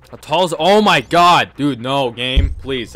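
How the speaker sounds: loud slow pleading panic; panicked shout. Real, not acted. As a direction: beg the game, scared. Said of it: "sorry for loud noises".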